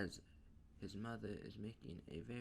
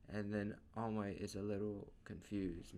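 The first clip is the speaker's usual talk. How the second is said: plain reading voice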